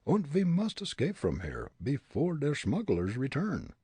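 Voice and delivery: put-on comic German accent; thick stage German. A narrator's reading. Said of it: "Fritz's German dialect".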